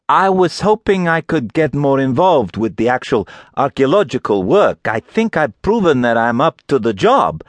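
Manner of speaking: hopeful, trying to sound capable; young woman voice. A narrator's reading.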